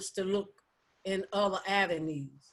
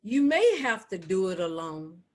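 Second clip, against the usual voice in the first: measured poetry reading, long pauses between lines; spoken poem as gentle counsel; poem recitation. Acted. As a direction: recite it deliberately, letting each line stand. Recites her own poem.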